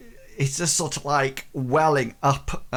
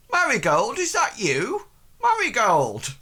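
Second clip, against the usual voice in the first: put-on high, surprised call in a Welsh accent; 11 semitones higher, 3 dB louder than usual. Blacksmith spotting Marigold there, high Welsh-accented call. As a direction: call her name in a raised Welsh lilt. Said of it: "Welsh accent".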